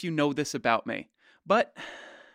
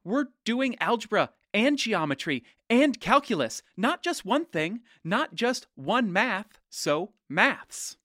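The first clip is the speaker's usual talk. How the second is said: mock pro-maths argument; 5 semitones higher than usual. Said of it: "I have heard every single pro-maths argument".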